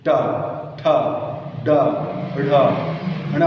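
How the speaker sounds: ट ठ ड ढ़ ण each sounded separately with the tongue curled back; retroflex series drill. Shown as a demonstration. Teacher drilling the retroflex row, measured. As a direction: call out ट ठ ड ढ़ ण one by one, paced. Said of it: "सभी का".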